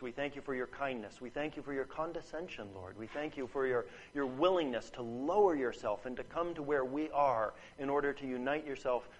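soft, low, hushed prayer voice; closing prayer. Acted. Preacher leads the congregation in prayer, hushed and humble. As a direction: speak quietly and humbly to God.

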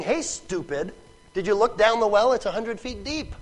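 lightly scornful mockery; a touch of ridicule, pitch rising; making fun. Woman at the well rebuffing the stranger, lightly mocking. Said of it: "She's making fun of him".

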